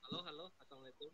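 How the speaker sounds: phone held away. Real, not acted. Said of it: "Suaranya kecil sekali".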